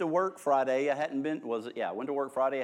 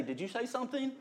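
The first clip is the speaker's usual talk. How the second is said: casual unaware; 10 semitones higher, 6 dB quieter, faster than usual. Retold or imitated. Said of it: "then say".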